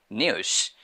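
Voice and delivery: news said British style as "nyooz"; British pronunciation. Shown as a demonstration. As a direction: say "news" the British way, with a y-glide after n. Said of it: "British people say".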